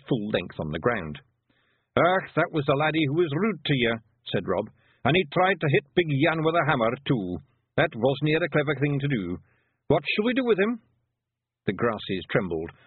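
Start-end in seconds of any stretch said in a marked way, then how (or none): 1.9-4.0 higher Scottish pictsie voice; Feegle leader. Acted. 5.1-10.8 higher Scottish pictsie voice; Feegle leader. Acted.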